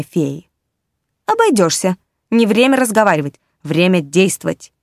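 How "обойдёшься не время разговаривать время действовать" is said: decisive, commanding kitten; firm exclamation. Acted. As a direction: cut him off firmly. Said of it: "категорично воскликнул Когтегрёнок".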